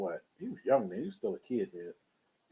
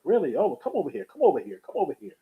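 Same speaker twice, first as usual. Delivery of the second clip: retold Al Pacino; 5 semitones higher than usual. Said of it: "And he was like".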